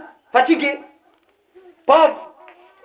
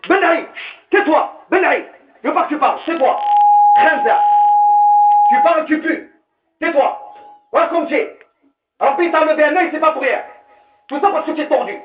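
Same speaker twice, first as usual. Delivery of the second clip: angry son; 4 semitones higher than usual. Retold or imitated. Son shouting his mother away. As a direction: hurl insults at the mother. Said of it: "son shouting at mother".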